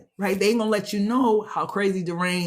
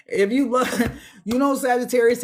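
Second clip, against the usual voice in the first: hurt plea, voice lifted higher, a laugh breaking in; emotional plea; 4 semitones higher than usual. Acted. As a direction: plead as someone left behind. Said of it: "That's why I said it like that".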